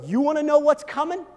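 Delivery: Jesus delighting in the reward; excited promise. Acted. Jesus telling followers their reward, excited and slowing at the end. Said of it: "It's like Jesus goes".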